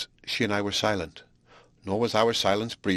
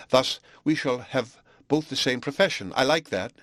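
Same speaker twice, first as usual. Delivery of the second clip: lightly voiced young pupil; 3 semitones higher than usual. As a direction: speak as the pleased young bride-to-be. Frances speaks to her master.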